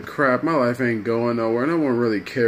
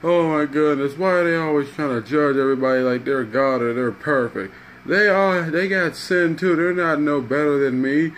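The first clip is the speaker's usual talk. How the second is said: raised-pitch aggrieved rant, lightly acted; mock crying complaint; 3 semitones higher than usual. Crackhead complaining about judgmental Christians, mildly acted tearful grievance. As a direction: complain as if upset, without real sobs. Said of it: "crackheads in there crying like".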